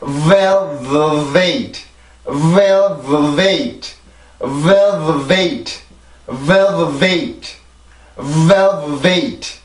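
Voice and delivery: velvet with a strong first v and a lighter second v; velvet, airflow strong on VEL weaker on vet; teacher demonstrating v air strength; compare the v sounds. Shown as a demonstration. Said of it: "공기의 세기를 한번 비교를 해보세요".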